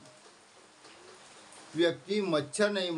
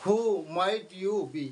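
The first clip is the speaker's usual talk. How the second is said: slow demo; 3 dB louder, much slower than usual. Shown as a demonstration. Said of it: "कहते ना".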